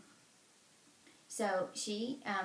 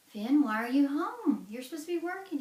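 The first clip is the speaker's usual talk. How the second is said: scolding wife; 7 semitones higher, 6 dB louder than usual. Acted. Wife scolding husband home early.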